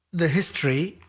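ordinary talk, nothing marked

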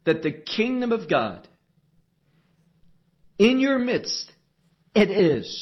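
emphatic, deliberate phrasing; emphasis. Shown as a demonstration. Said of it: "There's an emphasis that he wants to convey".

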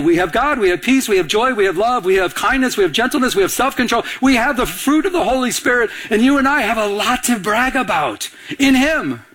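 lifted, rhythmic list of blessings; joyful preacher listing the fruit of the Spirit; rousing preaching. Acted. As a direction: lift the congregation with each gift.

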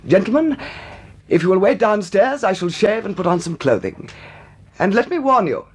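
lofty, deliberate announcement; haughty dignity. Acted. Gentleman warning captors about his dressing, haughty. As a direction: set your terms grandly. Recovers dignity, sets terms.

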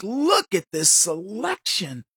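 slow, drawn-out marveling; retold amazement. European newcomer gaping at a regular store, amazed. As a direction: marvel slowly at what is on offer. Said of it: "he couldn't believe it".

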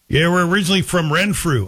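lightly imitated Ottawa Valley local; Ottawa Valley accent. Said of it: "sounds like an Ottawa Valley accent".

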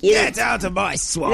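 slow, shouted Shrek line; Shrek impression. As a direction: bellow like Shrek guarding his swamp. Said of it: "Just do Shrek".

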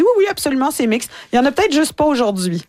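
high, mock-reassuring attendant voice; high, breezy reassurance, gently mocking; imitating the attendant. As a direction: lightly play the desk lady brushing off the worry. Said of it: "Elle me dit".

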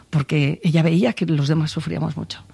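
real emotion catching in the voice; voice breaking. Real, not acted. Sister recalling the family's suffering, voice breaking a little. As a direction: voice cracking a little with grief. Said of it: "Se me quiebra un poco la voz".

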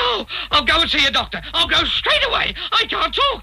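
building from dismay to a high wail; panicked teacher about to cry; near tears. Acted. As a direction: rise into a tearful, high-pitched lament. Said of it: "He looks as though he's gonna cry".

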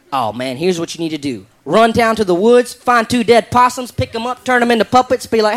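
put-on Southern redneck accent, colorful and folksy; redneck drawl. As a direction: talk like a good ol' Southern redneck. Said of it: "I like the way this guy talks".

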